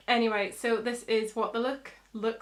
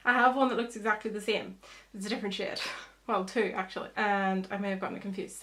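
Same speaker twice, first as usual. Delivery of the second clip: breathless after running to the car; out of breath; 3 dB louder than usual. Real, not acted. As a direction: talk while still catching your breath. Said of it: "sorry if I'm a bit out of breath".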